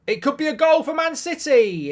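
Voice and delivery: high, loud commentator burst; excited goal call. Real, not acted. Streamer alerting viewers to a City chance, excited shout. Calling a possible live goal.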